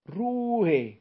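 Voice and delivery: shout for silence. A narrator's reading. Brausewein losing patience, bellowing at the arguing crowd. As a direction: silence the whole room with one word. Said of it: "rief er".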